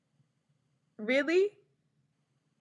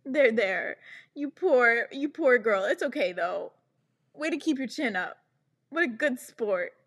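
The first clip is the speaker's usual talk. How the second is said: patronising pity; 2 semitones higher than usual. Retold or imitated. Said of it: "Being like".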